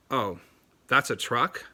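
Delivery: "Oh, that's a truck?" with the pitch rising on "truck" to make it a question; rising question tune. Shown as a demonstration. Teacher showing a student how a rising voice turns "that's a truck" into a question. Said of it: "because I inflected my voice".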